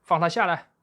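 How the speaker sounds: high, loud angry roar. A narrator's reading. Bear shaking his fist at the monkeys, loud roar. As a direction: bellow it at the monkeys. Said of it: "对猴子大吼".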